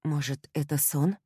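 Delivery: ordinary delivery, nothing marked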